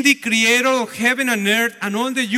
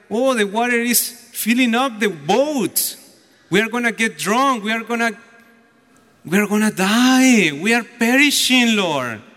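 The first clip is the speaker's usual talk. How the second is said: worried. Retold or imitated. Disciples crying to the Lord in a filling boat, worried. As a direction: imitate worried men in growing panic. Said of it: "became very worried".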